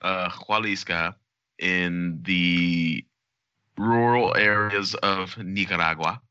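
put-on slow, mild Spanish accent on "Jalisco" and "Nicaragua"; a light attempt at a Spanish accent, slowed. Showing off his Spanish accent to cohosts, mildly. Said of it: "Is that a good Spanish accent?".

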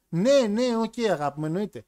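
mock yes-dear, high start dropping off; Brandy. Wife brushing off husband's costume idea, indifferently agreeable. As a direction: humour him without listening. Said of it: "πολύ αδιάφορος χαρακτήρας".

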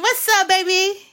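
put-on high cooing greeting to a baby; girl voice. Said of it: "put your girl voice on".

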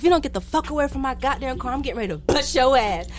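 telling her off again in the retelling; retold angry yell. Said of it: "I was like".

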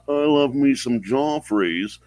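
lightly voiced proper butler. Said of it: "said in his, uh, best butler voice".

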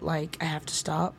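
unvoiced whisper to herself; whispered aside. Real, not acted. Embarrassed, she stops herself in a whisper. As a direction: cut herself off under her breath. Breaks off embarrassed mid-thought.

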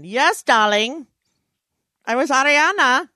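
Ariana Huffington impression. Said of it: "It's the worst impression I do".

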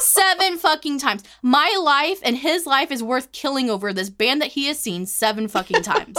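real indignation. Real, not acted. Venting to a friend about the band he'd seen, indignant. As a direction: hammer each word, high and heated.

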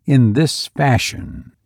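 measured, even storytelling read; story narration. A narrator's reading. Podcast host reading a horror story to listeners, measured narration. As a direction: draw listeners into a creepy tale. Reads Lovecraft story aloud.

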